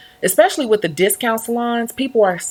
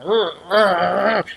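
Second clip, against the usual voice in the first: growling; much slower than usual. Retold or imitated. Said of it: "growling and all this stuff".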